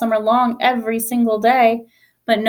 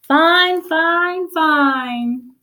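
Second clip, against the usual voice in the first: mild mock cheer, higher; a crowd cheering fine; a hint of a happy crowd shout; 6 semitones higher, much slower than usual. A narrator's reading. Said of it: "teachers shout".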